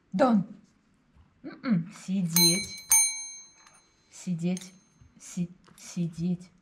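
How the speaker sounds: low, firm dog commands; talking to a dog. Real, not acted.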